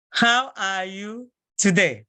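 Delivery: How are you today said slowly; slow and clear greeting; slow model. Shown as a demonstration. Teacher to class, slow greeting. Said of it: "slow model greeting".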